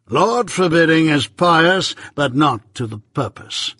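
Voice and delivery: measured, stern lawyer, lightly voiced; Jaggers. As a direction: lay it down slow and firm.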